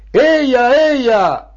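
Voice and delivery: high, ringing rally call; fervent cry. Acted. Party secretary rousing the children, fervent cry. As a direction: whip up the crowd with fervour. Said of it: "gridava ancora infervorato".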